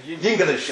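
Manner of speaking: "Yingalish" with a Y sound in front and an extra middle syllable; Yiddish-style pronunciation. Shown as a demonstration. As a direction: say "Yingalish", three syllables starting Ying-. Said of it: "as they say, Yingalish".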